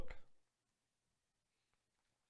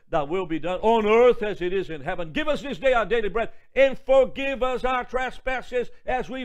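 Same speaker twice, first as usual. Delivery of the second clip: rising, louder, slowing prayer; prayer recitation; 2 semitones higher, 6 dB louder than usual. Acted. Preacher leading the congregation in the Lord's Prayer, building.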